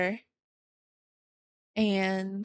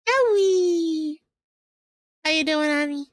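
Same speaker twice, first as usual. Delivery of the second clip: high, loud, bubbly greeting; cheerful high excited greeting; 5 semitones higher, 4 dB louder, slower than usual. Real, not acted. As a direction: call out to a friend, pitched up. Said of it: "talking in this voice".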